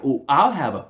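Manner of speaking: sarcastic sergeant's comeback; sarcastic reply. Retold or imitated. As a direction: stretch it out mockingly. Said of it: "And he said, like".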